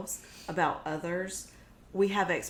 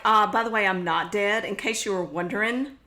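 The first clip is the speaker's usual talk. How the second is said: mock-sweet, louder jab; passive aggressive; 3 semitones higher, 6 dB louder than usual. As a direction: needle him with fake casualness. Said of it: "A little passive aggressive".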